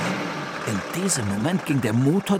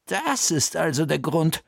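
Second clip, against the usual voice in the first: usual speaking voice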